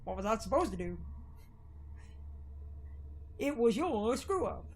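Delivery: lightly put-on Southern drawl, slow and low; a hint of a deep Southern accent, drawn out. Townsman blaming Lerv, in a mild Southern drawl. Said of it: "I can do some deep Southern drawl".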